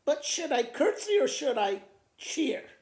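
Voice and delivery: very high, loud, laughing panic; panicking farmer. Acted. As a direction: squeal in comic panic as the carriage comes. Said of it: "he asked the dog".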